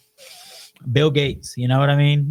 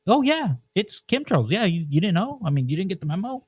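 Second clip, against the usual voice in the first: higher, mock-breezy "Oh yeah"; mock casual government; 4 semitones higher, 3 dB quieter than usual. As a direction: play the smug official shrugging it off. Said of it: "they're like".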